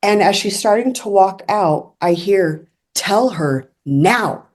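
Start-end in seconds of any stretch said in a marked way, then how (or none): 2.9-4.5 very drawn-out, measured order; slow command. Retold or imitated. Unseen voice insists as the girl walks out, slow command. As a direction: stretch each word out slowly.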